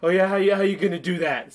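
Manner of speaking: a hint of a cocky tough guy; Mark Wahlberg quote. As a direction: challenge him sarcastically. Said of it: "says Mark Wahlberg".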